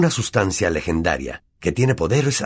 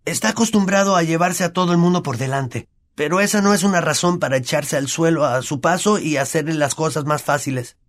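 Ron's voice; 9 semitones higher than usual. Acted. Ron lectures Neville.

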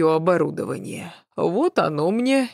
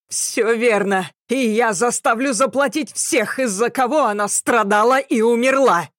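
vengeful declaration; 5 semitones higher than usual. A narrator's reading. Avenger declares vengeance for mother.

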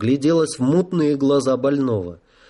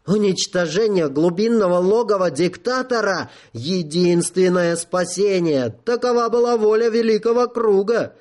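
breaking into falsetto; 6 semitones higher than usual. A narrator's reading. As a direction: voice climbing into a high falsetto. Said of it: "срываясь на фальцет". (срываясь на фальцет)

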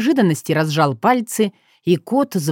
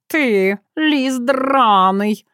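growled; 6 semitones higher, much slower than usual. Acted. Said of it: "прорычал свёрнутый".

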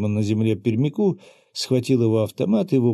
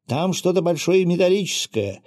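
higher-pitched exclamation, moderately raised; shouting; 8 semitones higher than usual. A narrator's reading. Enemy alerting his group to a metal find, shouting. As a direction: cry out an alarmed discovery. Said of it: "крикнул пермяк".

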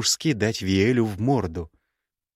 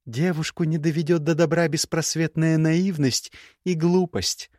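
put-on young woman's voice pitched higher, cool and cutting; higher, cool scornful young woman; Gerda's voice; 7 semitones higher than usual. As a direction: play the proud, scornful ex-bride. Gerda lectures.

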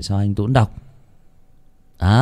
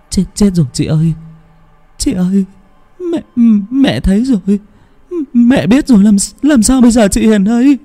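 put-on high, fast terrified girl's voice; stammering in terror as the mother appears; panicked stammer; 12 semitones higher, 6 dB louder than usual. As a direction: blurt it out in a frightened rush. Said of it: "lắp bắp".

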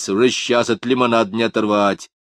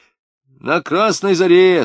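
put-on higher, louder, slow child's reply; eager child's answer; 9 semitones higher, 7 dB louder, slower than usual. A boy proudly telling the grown-up where his mother works. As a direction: sing it out like a boy proud he knows.

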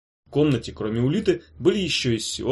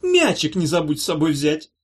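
sweetly smiling; 4 semitones higher, 4 dB louder than usual. Acted. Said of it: "сладко улыбаясь".

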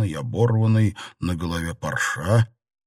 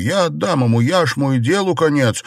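agitated; 7 semitones higher, 4 dB louder than usual. A narrator's reading. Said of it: "взволнованно ответил Бао Юй".

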